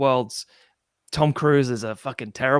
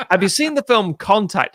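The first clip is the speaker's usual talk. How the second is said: loud, raised shouted question; 6 semitones higher, 6 dB louder than usual. Retold or imitated. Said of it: "And he says".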